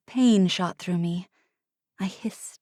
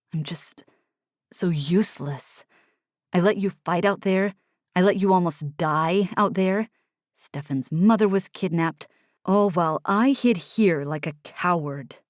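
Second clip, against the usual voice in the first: bitter Oliver. Acted. Oliver self-blame.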